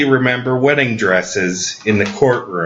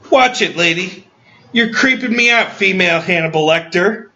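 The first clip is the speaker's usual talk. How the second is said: higher, mock-alarmed warning; raised mock-creeped-out retort; mock accusing; 6 semitones higher than usual. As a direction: warn her off in mock alarm.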